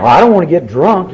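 laughing protest. Retold or imitated. Protesting to sponsor.

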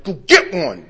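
retold panicky yell; freaking out. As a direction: yell it like a frantic husband. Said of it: "I'm freaking out".

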